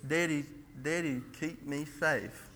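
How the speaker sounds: put-on soft, slow plea of a scared little boy; softly and slowly, like a frightened child; a hushed, slow, begging child voice; child's plea. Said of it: "he says".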